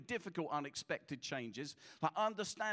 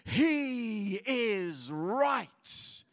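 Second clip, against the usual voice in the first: booming, hugely drawn-out divine proclamation; voice from heaven; 4 semitones higher, 7 dB louder, much slower than usual. Acted. God answering the pastor before his doubting leaders, booming. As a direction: proclaim it loud and very slow, stretching every word. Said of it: "a voice from heaven goes".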